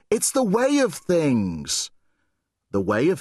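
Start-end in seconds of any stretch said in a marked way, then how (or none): 0.1-1.9 put-on girl's solemn urging. Girl's quote, then echoed inward.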